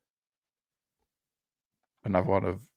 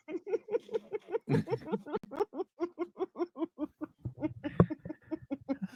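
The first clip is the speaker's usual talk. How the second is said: high helpless laughing fit; can't stop laughing; uncontrollable laughter; 10 dB quieter than usual. Real, not acted. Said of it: "I can't stop laughing".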